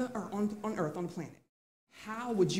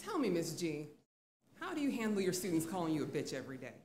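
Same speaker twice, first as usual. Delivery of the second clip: softer, low, confiding aside; retold whisper; 4 semitones lower, 6 dB quieter, faster than usual. Colleague leaning over to Miss G, mock whisper. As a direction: lean in and lower your voice for a discreet question. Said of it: "she leans over and whispers".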